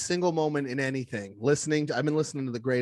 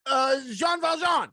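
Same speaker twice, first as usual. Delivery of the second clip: dopey convict; 11 semitones higher than usual. Retold or imitated. Convict blurts his name to guards in a high goofy voice. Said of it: "he was like".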